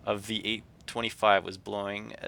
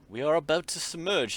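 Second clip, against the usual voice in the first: guard warning; 9 semitones higher, 7 dB louder than usual. Acted. Guard warns passengers.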